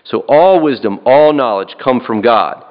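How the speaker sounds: each "all" punched; repeated emphatic "all"; stress on "all". Shown as a demonstration. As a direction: lean on "all" both times it comes. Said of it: "I would emphasize the word all".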